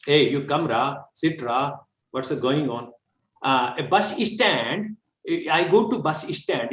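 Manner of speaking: lightly mimicked South Indian English; a hint of local English, slow at the end; regional Indian English. Teacher imitating regional English speakers in a lightly South Indian accent. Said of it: "ये भी अंग्रेजी है".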